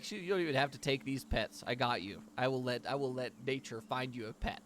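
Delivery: a hint of a delighted elf; lightly beaming reassurance; happy shopkeeper. Wood elf reassuring adventurer, mildly delighted. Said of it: "so happy that someone wants a pet".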